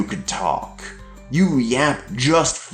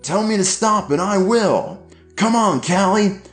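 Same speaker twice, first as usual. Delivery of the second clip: shouting dad; 12 semitones higher than usual. A narrator's reading. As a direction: shout at her while hitting him.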